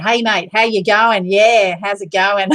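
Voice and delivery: playful, hammed-up Aussie greeting accent. Shown as a demonstration. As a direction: show off a broad Australian accent. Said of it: "you can probably tell the Aussie accent".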